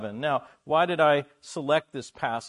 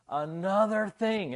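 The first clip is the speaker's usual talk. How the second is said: exasperated; 5 semitones higher, slower than usual. Retold or imitated. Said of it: "he's going".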